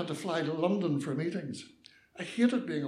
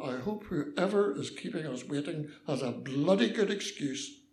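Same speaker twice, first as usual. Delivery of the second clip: grumbling; 3 semitones lower than usual. Acted. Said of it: "I grumbled to myself".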